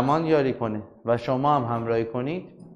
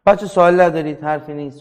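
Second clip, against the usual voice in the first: calling out; 5 semitones higher, 11 dB louder than usual. Real, not acted. Teacher calls out to class.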